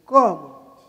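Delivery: loud, incredulous one-word question; taken aback. Retold or imitated. Singer balking at the interpreter's instruction, loud and incredulous. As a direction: burst out with a mock-shocked question. Retold shock at being told.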